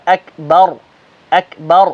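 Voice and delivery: اکبر with light ba and heavy ra; deliberate اکبر; careful اکبر. Shown as a demonstration. Teacher demonstrating the word. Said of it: "اس طریقے سے".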